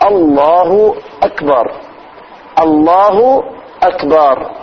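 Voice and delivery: الله أكبر said steadily, hamzas clear; correct takbir. Shown as a demonstration. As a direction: model الله أكبر for the class. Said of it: "شوف". (نطق صحيح للتكبير)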